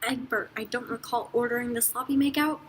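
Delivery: dry line with "sloppy" emphasised; "sloppy" picked out slightly; stress on "sloppy". A narrator's reading. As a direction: lean on the word "sloppy". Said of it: "Emphasis on the sloppy".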